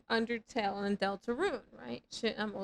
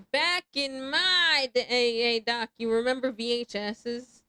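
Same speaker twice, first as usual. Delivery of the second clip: put-on old-timer voice; 6 dB louder, slower than usual. Old-timer phrase, slow and loud.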